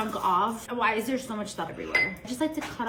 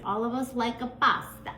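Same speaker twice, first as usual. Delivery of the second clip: light fake Italian lilt on the last word; fake Italian accent; 2 semitones higher than usual. Cook tells viewers about pasta, fake Italian accent. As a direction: put on a playful Italian accent. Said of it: "my fake Italian accent".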